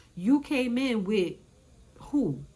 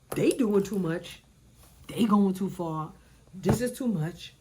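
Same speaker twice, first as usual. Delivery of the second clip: exasperated; 4 dB louder, slower than usual. Retold or imitated. Retells own reaction to fight.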